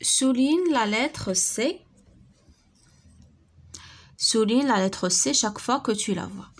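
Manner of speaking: slow, clear reading aloud; slow instruction read. Shown as a demonstration. Teacher reading the exercise to pupils, slowly. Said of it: "teacher reads instruction slowly".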